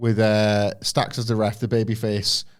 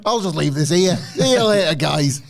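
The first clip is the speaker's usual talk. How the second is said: cheeky Ridge; 5 semitones higher, 4 dB louder than usual. Retold or imitated. Voicing Ridge leaving the chair.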